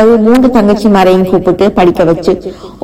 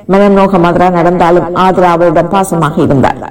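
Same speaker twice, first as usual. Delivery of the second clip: usual speaking voice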